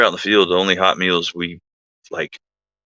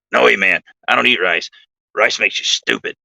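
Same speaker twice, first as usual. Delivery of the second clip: a light impression of an odd, fake-sounding voice; imitating Bill; 4 semitones higher than usual. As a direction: lightly put on his buddy's odd voice. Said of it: "I'm gonna do my best to imitate Bill's voice".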